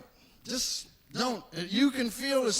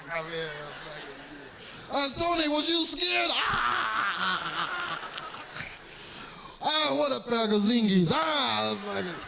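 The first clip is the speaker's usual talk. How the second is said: teasing mobster. Acted.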